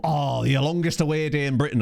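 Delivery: put-on a light northern English accent, half-joking; casual mock northern English accent. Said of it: "I've done a northern accent for that".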